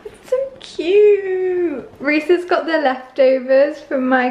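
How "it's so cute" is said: overjoyed. Real, not acted. Touched by dad's breakfast.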